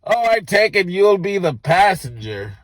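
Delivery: put-on a drunk stranger at the bar admitting he should leave; stranger's voice. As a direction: play the creepy guy casually. Stranger's odd remark.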